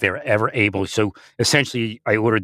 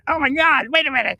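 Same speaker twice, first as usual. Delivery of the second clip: amazed realization. Retold or imitated. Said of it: "I'm like".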